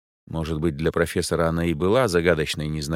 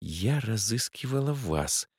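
hissed; 5 semitones higher, 5 dB quieter, slower than usual. A narrator's reading. A woman hisses at the detectives. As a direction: hiss it at them. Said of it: "прошипела она".

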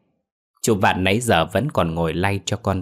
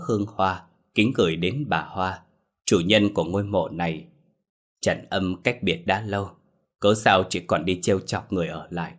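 solemn prayer. Acted. Shaman praying to the ghost at her grave, hushed and solemn. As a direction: intone it like a rite at a grave.

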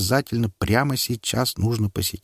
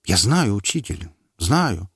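tearful. Acted. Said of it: "Симон всхлипнул".

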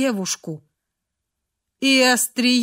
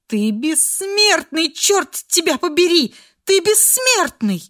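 высокий громкий крик сквозь слёзы; кричи, не веря в смерть; отчаянный крик; 7 semitones higher, 4 dB louder than usual. A narrator's reading. Фрея в отчаянии над раненым. (Фрея кричит над раненым Ренулфом: высокий отчаянный крик)

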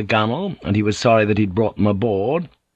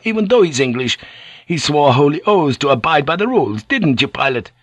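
raised-pitch, resentful protest; indignant hiss; 5 semitones higher than usual. Acted. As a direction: argue hotly against the leader. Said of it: "Jan Roper hissed".

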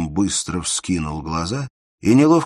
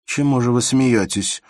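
cold and sharp; 7 semitones higher, 6 dB louder than usual. A narrator's reading. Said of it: "спросила она холодно и почти резко".

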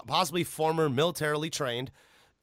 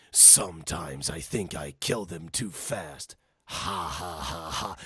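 much lower and softer, slow, ending in a dark chuckle; deep villain with laugh; 10 semitones lower, 4 dB quieter, slower than usual. Retold or imitated. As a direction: menace it out low, then laugh coldly. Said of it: "you gotta understand how this guy talks".

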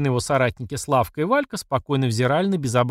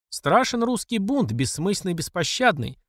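solemn quote; 5 semitones higher than usual. Acted. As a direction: intone the saying. Tolik quoting Pushkin.

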